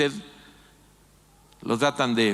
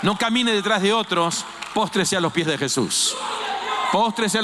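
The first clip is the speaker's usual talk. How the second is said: preaching shout; 4 semitones higher than usual. Real, not acted. Preacher exhorting the congregation.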